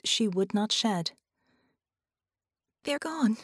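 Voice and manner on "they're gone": higher voice, holding back tears; understated grief, pitched up; a touch of tearful shock; grieving. A narrator's reading. Bella in tears reports a loss.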